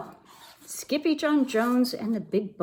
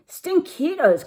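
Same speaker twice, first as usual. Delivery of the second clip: high-pitched playful call; 10 semitones higher, 4 dB louder than usual. A narrator's reading. Kitten hailing his smelly old friends, high calling out. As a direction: sing out the nickname up high. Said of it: "called out Skippy John Jones".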